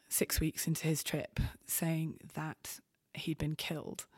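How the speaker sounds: real emotion catching in the throat; fighting back tears while retelling the loss; choked up. Real, not acted. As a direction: voice dropping to a near whisper, choked. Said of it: "I've become a bit choked".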